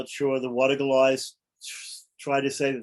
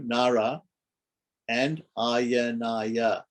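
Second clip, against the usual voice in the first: Nara, then a slow drawn-out Ayanaya; broken into parts; much slower than usual. Shown as a demonstration. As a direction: say Nara and Ayanaya as two separate, counted pieces. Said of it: "If we break that up".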